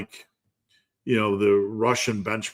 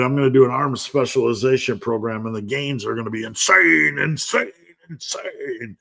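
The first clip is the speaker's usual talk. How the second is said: monster truck ad; 3 semitones higher than usual. Retold or imitated. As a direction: hype announcer, soaring on insane. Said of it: "like a monster truck commercial".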